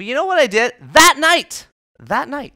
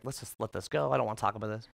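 uneasy dodge; 9 semitones lower, 8 dB quieter, faster than usual. Retold or imitated. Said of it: "I was like".

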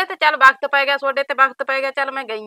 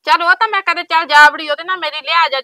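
louder, heated defence; defensive retort; 3 semitones higher, 6 dB louder than usual. Acted. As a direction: push back hard. Neighbour defends herself in quarrel.

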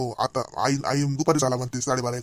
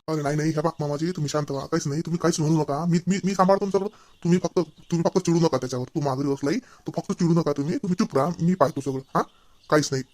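soothing calm; 4 semitones lower, 6 dB quieter than usual. Acted. Son-in-law calming father on phone.

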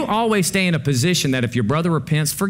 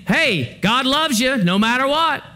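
mocking easygoing voice; 10 semitones higher, slower than usual. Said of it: "Paul's like".

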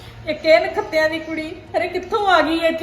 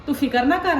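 soothing comfort; 4 semitones lower than usual. Acted. Mother comforts crying daughter.

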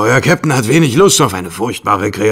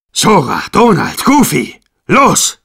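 rising battle call; 5 semitones higher, slower than usual. Acted. Captain urges friends into fight.

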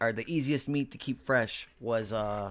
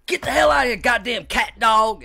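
imitated yell; 10 semitones higher, 9 dB louder than usual. Man chases cat off his picnic chicken, imitated high yell. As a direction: yell it like your buddy shooing an animal. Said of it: "and he was like".

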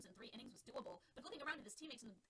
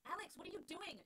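calling out; 7 semitones higher than usual. Acted. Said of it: "Dorothy called".

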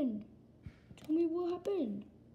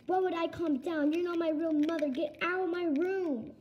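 angry yelling; 4 semitones higher, 4 dB louder than usual. Acted. Kid shouts at mother.

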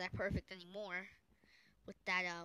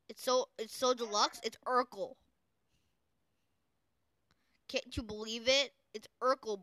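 hammed-up hype; 3 semitones higher, 7 dB louder than usual. Hyping up strategy Urkel.

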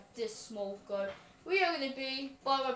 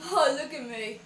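excited; 2 semitones higher, 11 dB louder than usual. Real, not acted. Delighted at own giraffe.

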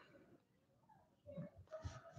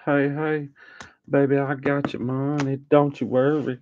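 imitating Shoe; 4 semitones higher, 4 dB quieter than usual. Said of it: "Shoe said".

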